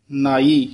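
ਨਾਈ said softly and lightly, not ਨਹਾਈ; a gentle, light ਨਾਈ; soft utterance. Shown as a demonstration. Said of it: "ਪੋਲਾ ਉਚਾਰਨ ਕਰਨਾ ਹੈ". (ਨਾਈ ਪੋਲਾ ਉਚਾਰਨ)

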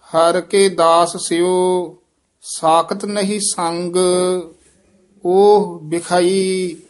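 slow, measured chant with held endings; teacher's deliberate Gurbani reading; scripture recitation. Acted. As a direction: intone sacred verse phrase by phrase.

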